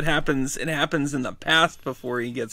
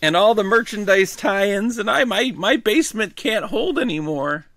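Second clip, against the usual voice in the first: lightly voiced grumpy old man, higher; old man impression; 6 semitones higher than usual. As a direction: grumble like a cranky grandpa. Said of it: "that's my old man impression".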